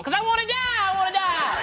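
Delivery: high, loud exasperation; mock sarcastic outburst. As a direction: yell back absurdly at a cop. Sarcastic answer to a policeman.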